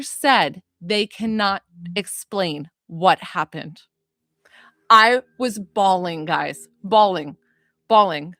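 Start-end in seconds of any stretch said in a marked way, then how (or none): 4.9-8.3 emotional. Real, not acted. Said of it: "still trying to come down from it".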